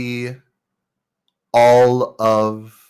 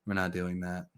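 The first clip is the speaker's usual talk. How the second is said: grumpy satyr; 4 semitones lower, 16 dB quieter than usual. Acted. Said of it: "the satyr go".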